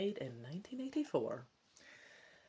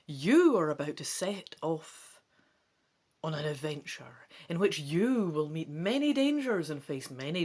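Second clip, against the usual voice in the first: instruction reading. Acted. Gamer reading the book's rules to viewers, narrator style.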